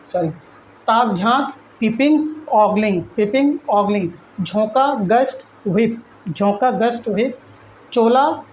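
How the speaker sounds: clear, careful teacher read-back for students to repeat; pronunciation drill. Shown as a demonstration. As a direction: model each word so the class can say it after you. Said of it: "इसको pronounce करिए".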